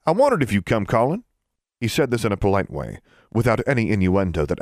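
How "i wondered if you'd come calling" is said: Burton's voice. A narrator's reading.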